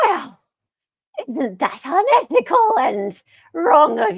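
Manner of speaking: slow, creaky mocking witch. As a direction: sneer it out like a witch. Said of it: "Heather does a great witch voice".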